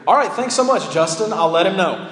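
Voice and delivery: lightly voiced cheery phone assistant; breezy imitation of an assistant taking a message. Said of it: "on the other end of the phone, you hear".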